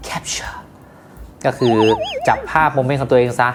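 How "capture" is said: hushed, whispered slogan word; whispered echo. Pretend. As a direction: repeat it in a soft whisper. Echoes the slogan word softly. (กระซิบเบาๆ)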